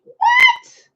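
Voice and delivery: very high, loud shocked cry; shocked what. Real, not acted. Hearing a viewer's friend cheated, shrieking high. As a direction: shriek of disbelief.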